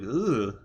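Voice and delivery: quick mock "ugh" of squeamishness; retold wince at a gory sight; wincing groan. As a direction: imitate a wince with a short rising "ugh". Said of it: "wincing, like".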